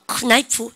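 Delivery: "큰 나이프" begun with a spoken K; K sounded in knife. Shown as a demonstration. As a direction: mispronounce knife as "큰 나이프", K before N. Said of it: "K 발음 묵으면".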